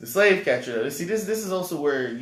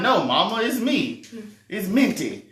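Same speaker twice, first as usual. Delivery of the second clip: imitating Harriet; 8 semitones higher, 5 dB louder than usual. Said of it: "She's like".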